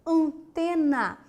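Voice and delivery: antena whispered slowly; slow example word. Shown as a demonstration. Teacher shows the nasal A in antena. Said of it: "Olha lá o exemplo".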